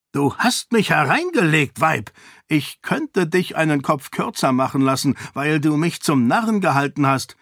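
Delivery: the enraged king threatens her; angry king. Acted. King feels deceived. (zorniger König, drohend)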